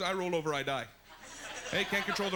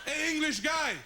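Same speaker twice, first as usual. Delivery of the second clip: Quebec lifeguard; 5 semitones higher than usual. Retold or imitated. Lifeguard yelling at an English swimmer, Québécois accent.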